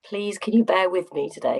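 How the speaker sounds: slightly hoarse, croaky voice. Real, not acted. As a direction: speak through a croaky throat. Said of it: "I've got a little bit of a croaky voice".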